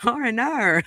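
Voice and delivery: attempted Australian accent. Shown as a demonstration. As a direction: copy the teacher's Australian accent. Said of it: "in Australian".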